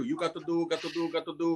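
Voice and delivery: lightly voiced bossy church lady; bossy leader. Leader woman bosses the group, lightly voiced. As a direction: boss the others around. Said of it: "She tells everybody else what to do".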